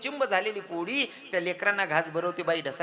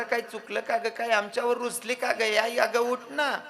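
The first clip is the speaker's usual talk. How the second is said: high, loud pleading wail; a small boy begging his mother to wake up; wailing child; 4 semitones higher, 8 dB louder than usual. Acted. Child tries to wake dead mother.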